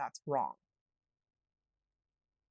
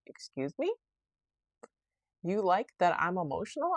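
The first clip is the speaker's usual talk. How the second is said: mildly taken aback, questioning; confused. Retold or imitated. Speaker recalls reacting to being liked as emotional, mildly confused. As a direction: retell a puzzled reaction with a questioning lift. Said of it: "I was very confused".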